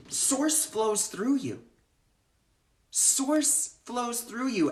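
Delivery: slow, deliberate, each word weighed; slow emphasis. Shown as a demonstration. Telling the group how Source works, slow and deliberate. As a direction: let it sink in slowly.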